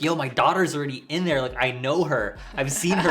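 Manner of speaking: getting worked up, pitch climbing; hyped up. Retold or imitated. Dad retelling his qualms about his unborn daughter, hyped up. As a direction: plead the case with rising excitement. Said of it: "Sorry, I'm getting so hyped about it".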